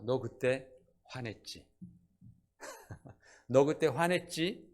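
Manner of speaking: God scolding. Acted. God confronting Moses, slow and knowing. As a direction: drag it out like a knowing reproach. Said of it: "하나님이 뭐라고 하십니까?".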